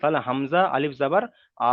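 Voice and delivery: হামজা আলিফ জাবার আ chanted, আ held one alif long; recitation drill. Shown as a demonstration. Teacher reciting the letter drill for the class. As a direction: spell it out, then hold আ. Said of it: "আ বলে এক আলিফ পরিমাণ টান".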